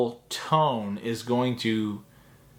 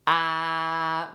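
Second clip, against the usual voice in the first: pitch target; 3 semitones higher than usual. Shown as a demonstration. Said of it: "right about there".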